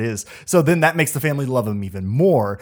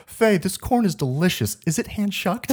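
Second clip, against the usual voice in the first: high, giggling mock question; laughing imitation of a fussy diner; quoting through laughter; 6 semitones higher than usual. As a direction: quote it while laughing. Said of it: "And then he says".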